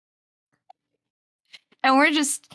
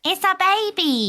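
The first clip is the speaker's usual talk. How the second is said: insistent repeat; 9 semitones higher than usual. Real, not acted. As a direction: insist on it the second time. Repeats the claim more insistently.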